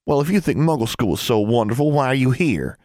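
looking down her nose; haughty girl. A narrator's reading. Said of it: "Angelique said haughtily".

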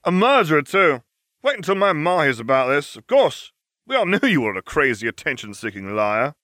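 high-pitched, taunting schoolboy accuser; obnoxious student. A narrator's reading. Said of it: "An obnoxious Gryffindor said".

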